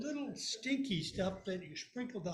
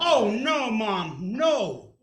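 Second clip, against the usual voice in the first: sister yells; 3 semitones higher, 15 dB louder, much slower than usual. Retold or imitated. Sister protesting to mom about dishes. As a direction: wail it out in protest. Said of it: "my blister yells out".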